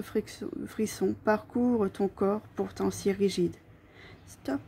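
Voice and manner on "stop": soft whispered stop; murmured in the ear. A narrator's reading. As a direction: breathe it right into the ear. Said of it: "je te murmure à l'oreille".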